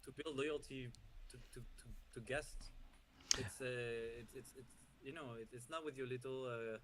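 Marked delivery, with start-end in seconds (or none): 1.6-6.8 light mock French accent. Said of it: "I'm glad that you put the French accent on that".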